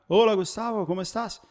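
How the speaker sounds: put-on a light Spanish accent on a friendly phone greeting. Car salesman phones him, greeting him in a light Spanish accent. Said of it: "Falando em espanhol".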